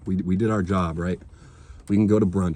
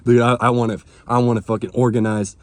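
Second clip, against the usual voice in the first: loud, eager burst of mock enthusiasm; retelling his own keen outburst, louder; eager shout; 4 semitones higher, 6 dB louder than usual. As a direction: belt it out like a fired-up new recruit. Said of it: "I'm like".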